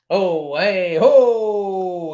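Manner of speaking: loud, rising exclamation; excited whoop. Real, not acted. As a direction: cry out, swelling on the last sound. Exclaims at big talk in chat.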